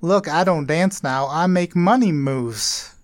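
slow flat reading of rap lyrics; deadpan lyric reading. Shown as a demonstration. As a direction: recite the lyrics, unimpressed. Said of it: "read you some of these lyrics".

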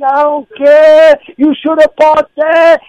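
mock stubborn shout, dragged out; retold angry retort. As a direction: stretch the words out, imitating an arguing man. Retold neighbour shouting back in quarrel.

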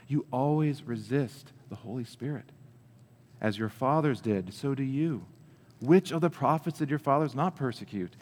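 earnest scripture plea, rising on key phrases; urgent appeal that slows and settles toward the end; pleading. Acted. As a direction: plead with them, firm but not yelling. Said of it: "I think he's pleading with them".

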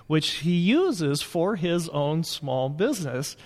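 roomy banquet hall reverb; big hall echo. Real, not acted. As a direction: voice bouncing round an empty hall. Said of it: "if you hear some reverb in the background".

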